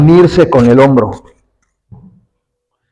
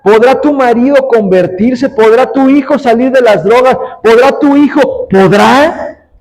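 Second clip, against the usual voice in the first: raised-pitch rhetorical questions; preaching; 8 semitones higher than usual. Acted. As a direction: press the congregation with insistent, rising questions. (predicación insistente, con preguntas en tono alto)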